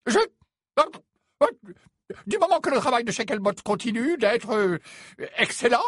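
stammer, losing your footing; unsteady voice. Acted. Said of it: "d'une voix mal assurée". (d'une voix mal assurée)

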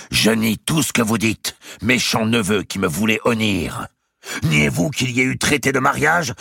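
high, loud denial; Mao's denial. A narrator's reading. Mao denying before the court, high and loud. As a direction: spit back the denial.

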